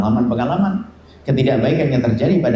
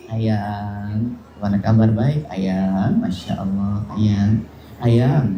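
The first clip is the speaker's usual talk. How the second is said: sweet-talking spouse; 4 semitones lower, much slower than usual. Acted. Spouse sweet-talks a partner before a dig, sugary voice. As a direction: coo it, then slip in the jab.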